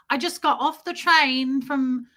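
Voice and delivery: British impression. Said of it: "or however they say it".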